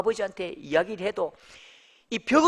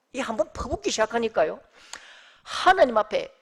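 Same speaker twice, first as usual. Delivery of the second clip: normal talking voice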